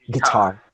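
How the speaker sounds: "guitar" with light "gui" and strong "TAR"; "gui-TAR", stressed on the last syllable; second-syllable stress. Shown as a demonstration. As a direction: hit the end of "guitar". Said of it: "That falls, rises, ups and downs".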